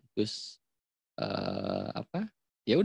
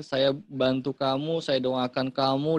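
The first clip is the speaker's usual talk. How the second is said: mock overdone support. Shown as a demonstration. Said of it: "itu kalimat support".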